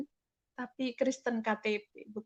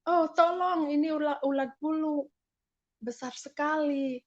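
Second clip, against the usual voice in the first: retold cry for help, higher and louder, easing toward the end; mock-alarmed yell for help; teriak minta tolong; 4 semitones higher, 3 dB louder than usual. (teriakan minta tolong yang ditirukan)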